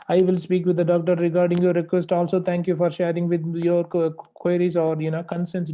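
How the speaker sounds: rattled off fast without pauses; rushed run-on. Shown as a demonstration. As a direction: gabble it all in one breath like a wrong example. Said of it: "You can't speak like this".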